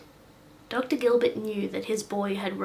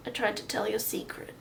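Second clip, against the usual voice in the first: breathy tearful whisper; whispered confession; 3 dB quieter than usual. Acted. Boy whispering his guilt to the doctor, tearful. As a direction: barely voice the words.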